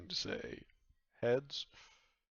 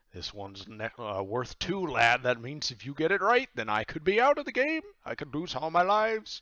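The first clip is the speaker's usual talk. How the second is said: rising into a loud, high gloating boast; pirate captain voice; 6 semitones higher, 9 dB louder than usual. Acted. Pirate captain warns the player he could lose all lives, rising boast. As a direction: crow over the danger, getting louder.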